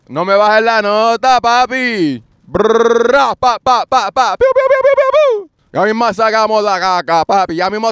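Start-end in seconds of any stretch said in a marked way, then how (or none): 2.4-4.4 rolled brrra then pa pa sounds; imitated gunfire. Mimicking gunfire to the camera, rolled rattle. 4.4-5.5 very high piu piu chirps; mock piu noises. Playful sound effect for his followers, high chirps.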